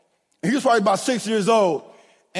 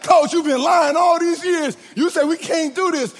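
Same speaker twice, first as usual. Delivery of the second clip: put-on kids calling out; 7 semitones higher than usual. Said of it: "all my kids come back".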